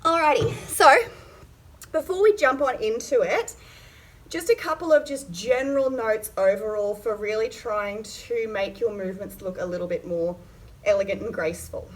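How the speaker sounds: slightly winded while talking; out of breath. Real, not acted. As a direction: talk while catching your breath. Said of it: "catching my breath as I'm talking".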